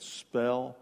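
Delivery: punchline dropping low and soft, breaking into laughter; can barely get it out for laughing. Real, not acted. Joke punchline.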